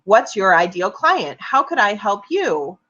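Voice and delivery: slow, sing-song mock networker pitch; lightly mock a networker's polite patter; fake helpfulness. Mocking networkers handing out cards, falsely helpful. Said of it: "very thin veneer of bullshit".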